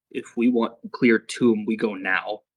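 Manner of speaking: low, slow, terse Garg voice; Garg leaning in. Acted. Garg confiding in Bartimaeus, low slow urging. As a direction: lean in close and keep it low. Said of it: "he leans into Bartimaeus and go".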